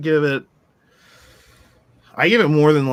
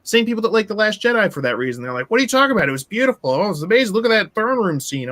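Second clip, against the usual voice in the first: mocking fan voice; 6 semitones higher, faster than usual. Mocking fans of the film.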